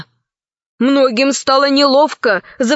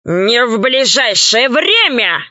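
harsh, hard. Acted. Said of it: "жёстко произнёс Панченго".

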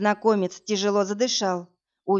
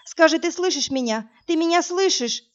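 desperate pleading; 5 semitones higher than usual. A narrator's reading. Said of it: "Затрясла я его за плечи".

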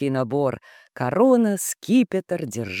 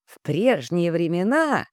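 nostalgic. Acted. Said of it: "с ноткой ностальгии произнёс Ром".

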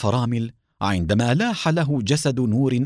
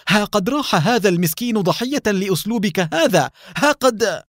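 much higher, louder furious accusation; angry outburst; 8 semitones higher, 3 dB louder than usual. A narrator's reading. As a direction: blast the leader with mounting anger. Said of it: "وهو يقول غاضبا". (غضب عارم ونبرة عالية)

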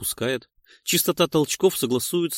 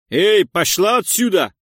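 loud, higher, chasing her off; angry shout; 8 semitones higher, 9 dB louder than usual. Acted. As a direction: bark it at her back. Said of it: "кричит в спину Борз".

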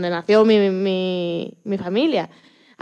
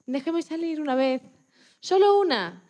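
pleading; 3 semitones higher than usual. Retold or imitated. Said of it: "le rogué".

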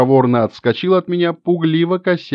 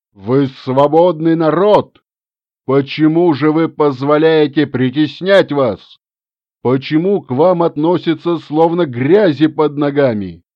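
rousing speech; 3 dB louder than usual. Acted.

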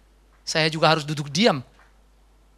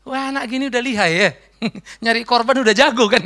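amused onlooker; 3 semitones higher than usual. Retold or imitated.

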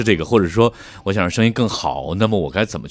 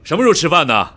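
loud stage voice, higher and louder; calling across the room; 9 semitones higher, 6 dB louder than usual. Shown as a demonstration. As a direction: project it like to someone ten meters off. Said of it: "你以后你就大声说话".

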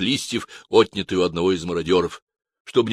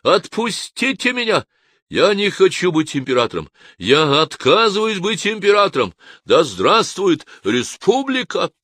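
furious shout; 10 semitones higher, 4 dB louder than usual. Acted. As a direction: rage against being made emperor. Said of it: "в ярости закричал я".

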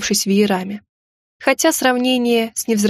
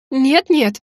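hasty mutter; 4 semitones higher than usual. A narrator's reading. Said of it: "поспешно бормотала я".

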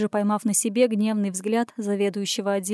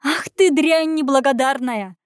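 slow, higher, louder spat insult; enraged outburst, higher and louder; furious outburst; 4 semitones higher, 4 dB louder than usual. A narrator's reading. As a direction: flare up and spit it at her. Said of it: "взвилась начальница".

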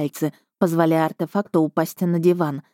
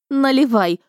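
high, merry call, hint of laughter; mild narrated mirth; through laughter; 7 semitones higher, 3 dB louder than usual. A narrator's reading. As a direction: say it as if amused, pitched up. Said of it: "проговорила она сквозь смех".

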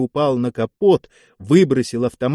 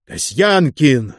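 furious shout; 2 semitones higher, 3 dB louder, slower than usual. Acted. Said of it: "яростно закричал Осин".

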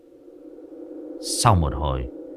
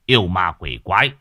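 commanding exorcist; 4 dB louder than usual. Acted. Old exorcist shouting down the ghosts around the boy. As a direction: bellow it like a sorcerer banishing ghosts. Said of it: "Người ấy xăm xăm chỉ tay".

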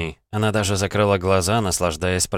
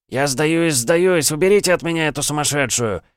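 high, loud panicked squeal; shrieking surrender; 8 semitones higher, 3 dB louder than usual. A narrator's reading. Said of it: "Внезапно заверещал Николай".

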